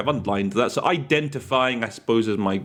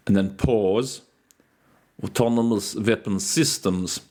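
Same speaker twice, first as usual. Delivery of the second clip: Russian delegate quote. Retold or imitated. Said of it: "in his Russian accent".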